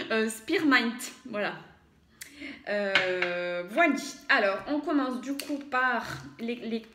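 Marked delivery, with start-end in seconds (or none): 0.1-1.0 Spearmint said as English, louder, with a French accent; English word, French accent. Real, not acted. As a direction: attempt Spearmint the English way, a bit self-conscious. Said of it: "pardonnez-moi mon accent". (Spearmint prononcé à l'anglaise, avec un accent français)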